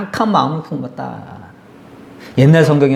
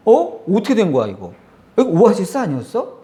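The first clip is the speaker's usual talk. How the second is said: confused people; 6 semitones higher than usual. Retold or imitated. People voiced in sermon, confused.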